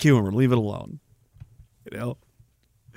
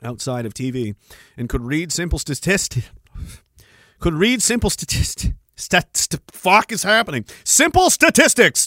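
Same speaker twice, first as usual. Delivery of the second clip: reading a comment; 3 semitones lower than usual. Retold or imitated. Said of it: "He says".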